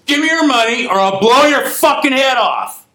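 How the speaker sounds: high, loud mock yell of a robber; retold threat. Imitating the kid yelling at the old man, loud mock threat. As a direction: bark the threat like the armed kid.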